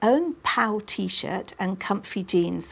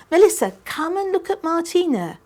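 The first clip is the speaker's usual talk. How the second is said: high, loud call to the next room; 10 semitones higher, 4 dB louder than usual. Acted. Mother calls the older sister to come see the dress. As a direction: call her in from down the hall.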